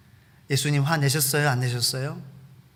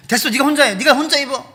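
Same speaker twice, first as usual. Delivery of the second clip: higher, louder annoyed parent; irritated snapping; 11 semitones higher, 10 dB louder than usual. Retold or imitated. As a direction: snap at the kids in irritation. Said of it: "짜증내고 화내고".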